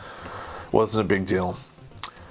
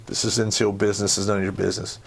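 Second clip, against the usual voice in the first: even warning; 3 semitones lower, faster than usual. Retold or imitated. Telling officers to stay out.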